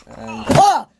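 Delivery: sudden high frightened cry; shocked squeal of fright; startled yelp. Real, not acted. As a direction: jump out of your skin mid-sentence. Startled by a mob appearing.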